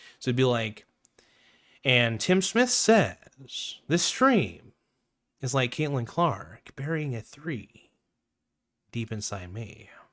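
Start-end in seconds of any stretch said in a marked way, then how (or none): 1.9-9.9 put-on, dramatic TV host voice. Retrying the chat reading: better Chris Hansen impression. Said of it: "let me try to do a better Chris Hansen impression".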